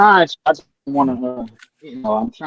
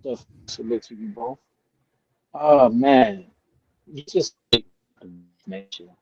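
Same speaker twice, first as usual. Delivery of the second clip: choppy breaking-up call audio; underwater. Real, not acted. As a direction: voice cutting in and out on the line. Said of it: "Your audio is breaking up".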